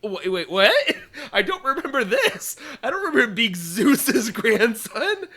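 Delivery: laughing through a confused question; can't believe it, cracking up mid-sentence; laughing disbelief. Retold or imitated. Recalling her first reaction to the episode, laughing in disbelief. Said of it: "And I was like".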